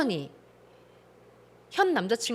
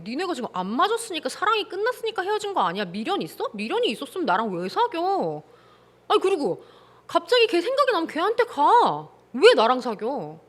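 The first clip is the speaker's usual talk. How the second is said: put-on confronting boyfriend. Host acts himself confronting his girlfriend over the texts, mock angry. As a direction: grill her like you caught her texting. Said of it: "저는 이렇게 얘기할 것 같아요".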